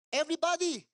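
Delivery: loud firm order to the crowd; commanding call. Retold or imitated. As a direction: raise the voice and command them to stay. (malakas na utos sa mga tao)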